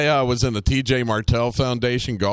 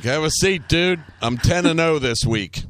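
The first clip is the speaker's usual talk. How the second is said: slightly raised, swaggering voice; cocky interrogator; 5 semitones higher than usual. Acted. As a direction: play a lightly hammed-up tough host. Plays interrogator taunting a prisoner.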